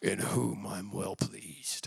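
very low, hushed, slow rumble. Quoting the Father speaking down at the baptism: James Earl Jones voice. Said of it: "James Earl Jones".

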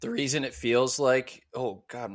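voice cracking, breaking on the words. Explaining a pick to everybody, voice cracking. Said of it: "my voice cracked right there".

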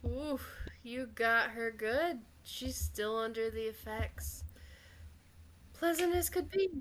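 sneaky, sly, creeping little voice. Voicing the little voice that creeps back into a player's head: creeping little voice in your head. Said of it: "that little voice creeps back up in the back of your head".

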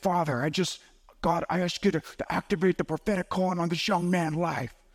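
genuinely raspy, rough voice. Retelling how Lou put his hand on him and prayed, imitating Lou's raspy voice. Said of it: "Lou had that real raspy kind of voice".

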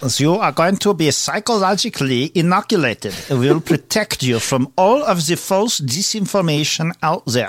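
thick German accent. Asked by another speaker to say it in a thick german accent. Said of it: "Can he say that with like a really thick German accent?".

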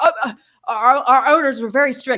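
halting, stumbling stammer. Speaker retelling a coffee-shop worker's reply about the mandates: imitating someone stammering. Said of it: "And he's like stammering".

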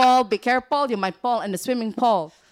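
put-on loud Filipino-accented English. Explaining how some Filipinos speak English, in a Filipino English accent. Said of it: "they can talk with an accent like this".

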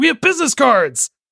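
acted, shrill, very high blurted shout. Recounting a Guardians of the Galaxy scene, retelling Drax's shout. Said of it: "Drax shouts out".

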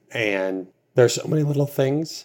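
voice cracking on a word mid-line. Talking about their spouse, voice cracking. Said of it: "good voice crack there".

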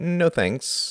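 cautious, wary, very high-pitched. Tom declining his older brother's offer of tea, wary. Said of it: "said Tom warily".

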